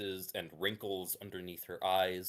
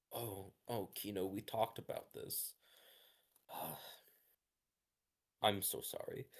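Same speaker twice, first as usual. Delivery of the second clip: much softer, gentle and sighing; tender mother; 9 dB quieter than usual. Acted. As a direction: soothe the child after the scare. Mother softens toward her child.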